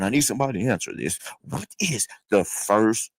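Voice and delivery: bubbling over to ask his question; excited. Real, not acted. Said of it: "I'm a little excited".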